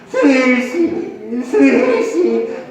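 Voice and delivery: slow, drawn-out theatrical call; implore, stretching out the name; plaintive plea. Shown as a demonstration. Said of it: "애절하게 불면". (길게 늘여 애절하게)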